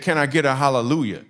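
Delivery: a hint of a pastor calling out; lightly voiced preacher asking for a hallelujah. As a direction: ask it like a pastor to the crowd. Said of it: "he did this thing where he said".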